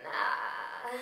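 awkward laugh. Retold or imitated. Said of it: "I did it kinda quiet".

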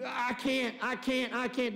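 mock stammering, the phrase caught on repeat; halting, lightly acted stutter; imitated stutter. Moses protests to God that he cannot speak, in a mock stutter. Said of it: "he starts stuttering".

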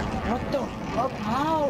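startled, rising disbelief; panicking gamer. Real, not acted. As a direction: caught off guard, pitch jumps up. Killed suddenly in the match.

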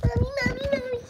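high, loud, rapid-fire calling; insistent child's call; urgent calling. Acted. Child urgently calls for mother.

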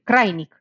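crainic said in two syllables, crai-nic, with ai as one glide; correct diphthong. Shown as a demonstration. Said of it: "Zic crainic".

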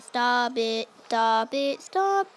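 raging gamer. Real, not acted.

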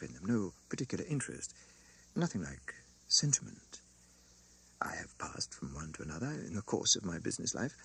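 hushed, almost breathless confession; near whisper. A narrator's reading. Banker telling Lucie he is a machine, murmured. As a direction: let it drop to a murmur. Lorry insisting he has no feelings.

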